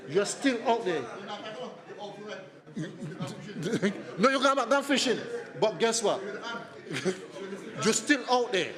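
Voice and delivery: high, laughing tease. Real, not acted. Teasing student, laughing.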